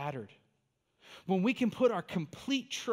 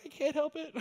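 mock tearful; 8 semitones higher than usual. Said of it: "I just started crying".

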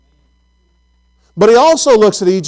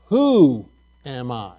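doubting question; 6 semitones lower, slower than usual. Shown as a demonstration. Preacher showing Moses doubting God, a hesitant question. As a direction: voice drops away, unsure. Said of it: "because he's doubting".

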